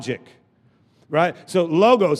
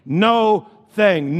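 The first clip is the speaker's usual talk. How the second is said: "No thing" pulled apart, both words weighted; split into two words. Shown as a demonstration. Preacher repeating the split word for emphasis, deliberate "No thing". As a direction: lean long on "No", then drop onto "thing". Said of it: "two words put together make one word".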